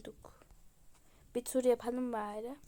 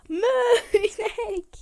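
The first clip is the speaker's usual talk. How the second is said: mock moo; 8 semitones higher, 10 dB louder, slower than usual. Imitating a cow on seeing it.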